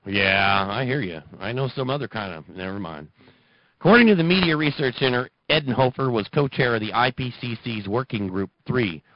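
usual speaking voice

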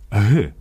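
«г» said as the breathy Ukrainian h; h sound. Shown as a demonstration. Host quoting the spelling rules, showing the h sound. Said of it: "вимовляється як".

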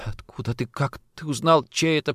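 as if short of air, alarmed; shocked. Acted.

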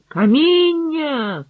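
high, slow battlefield shout; drawn-out shouted order. A narrator's reading. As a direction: shout the order to bring stones. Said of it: "крикнув".

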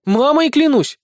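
high, loud, emphatic oath; assuring. A narrator's reading. Small blonde denies involvement to suspicious companion, assuring. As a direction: swear innocence at full pitch. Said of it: "заверила миниатюрная блондинка".

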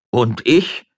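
loud, high plaintive outburst; tearful interjection. Acted. Magistrate joining the others' tears, loudly plaintive. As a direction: butt in, caught up in the weeping. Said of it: "durch das Weinen angesteckt wurde".

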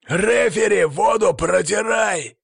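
high, loud, furious shout at the referee; yelling. A narrator's reading. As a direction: shout it out high, drawing out the words. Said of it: "заорал он". (яростный громкий крик)

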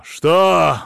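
shocked outburst. A narrator's reading. Patient leaping up at her suggestion, loud and shocked. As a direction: jolt up in disbelief.

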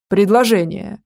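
lightly voiced startled man; man's voice. A narrator's reading. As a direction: blurt it out as a flustered man. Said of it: "мужским голосом".

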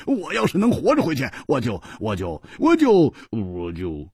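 laughing, stammering retort. Acted. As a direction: laugh and stumble for words. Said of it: "胡铁花大笑说". (胡铁花大笑着结巴回嘴)

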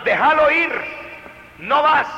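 high, loud overlapping orders; contradicting parents shouting; mother shouting in. Retold or imitated. Parents contradict each other.

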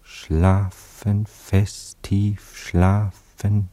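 slow, soothing hypnotist voice; hypnotic lulling. Acted. Anatol hypnotising Cora, slow and soothing. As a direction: lull her to sleep, word by word.

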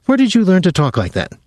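high, mocking jab; taunting. A narrator's reading. Gretchen taunting her hurt tutor, high-pitched. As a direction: needle him with a high taunt. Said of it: "she taunted him".

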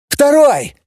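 high triumphant yell; battle yell of triumph. A narrator's reading. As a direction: shout it out in victory. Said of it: "заорал Микель".

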